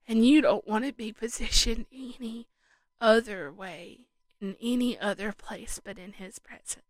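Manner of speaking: teary and snotty after crying. Real, not acted. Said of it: "I'm all snotty. When I cry".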